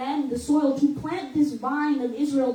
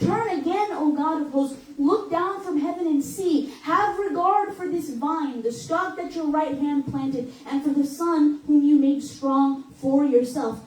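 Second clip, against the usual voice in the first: pleading psalm. Retold or imitated. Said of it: "the psalmist is asking".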